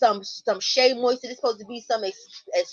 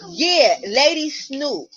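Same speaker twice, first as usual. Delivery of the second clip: hype shout-out; 2 semitones higher, 5 dB louder, much slower than usual. Real, not acted. Hyping up a friend.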